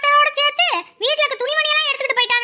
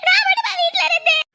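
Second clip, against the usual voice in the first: crying wife; 4 semitones higher than usual. Acted. Wife cries while being beaten.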